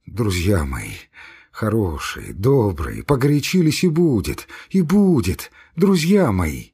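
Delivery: coaxing murmur. Acted. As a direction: soothe two friends, gently. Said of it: "забормотал ласковым, дрожащим от волнения голосом".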